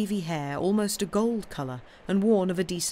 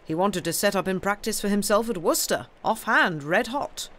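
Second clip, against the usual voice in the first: louder, higher, lightly voiced uncle; indignant uncle; 5 semitones higher, 5 dB louder than usual. Uncle telling his wife Sam's plans, mildly indignant. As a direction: report a foolish scheme with disapproval.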